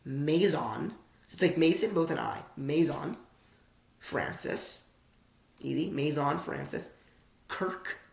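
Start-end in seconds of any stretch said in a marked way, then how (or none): 0.0-0.9 "Maison" said slowly as MAY-zon; "Maison" in careful American syllables; slowed-down pronunciation. Shown as a demonstration. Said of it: "I'll slow it down". 2.6-4.9 "Maison Francis" word by word, a pause between; "Maison" as MAY-zon, then a softer "Francis"; slowed-down pronunciation. Shown as a demonstration. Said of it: "I'll slow it down".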